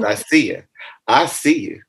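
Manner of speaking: high, playful peekaboo call; playful eyeball voice. Pretend. Guest jokes as the eyeball looking at followers, playful eyeball voice.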